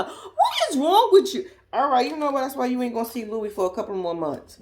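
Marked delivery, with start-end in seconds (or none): 0.0-1.5 high, slow, laughing scold; laughing disbelief. Retold or imitated. Scolding a friend at the prison, laughing high. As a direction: laugh while scolding her.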